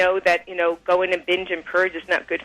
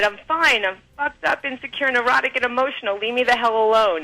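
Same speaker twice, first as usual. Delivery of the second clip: higher pitch, exasperated "I'm fine" blurted out; retold upset outburst; 4 semitones higher than usual. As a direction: replay the moment you lost patience with them. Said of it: "finally I got so upset with somebody".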